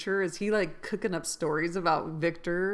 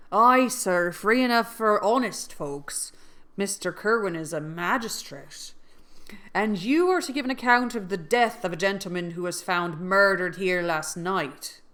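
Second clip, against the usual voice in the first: gruff pirate-like Irish voice, louder; pirate accent; 5 dB louder than usual. Acted. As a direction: growl it like an old pirate. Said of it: "It sounds more pirate".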